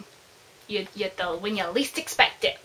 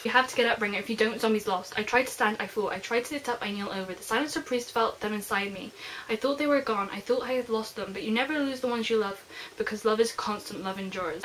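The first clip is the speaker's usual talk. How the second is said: softer, quietly dramatic reading; book reading; 4 dB quieter than usual. Acted. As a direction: read the passage with quiet emotion. Reads book passage aloud.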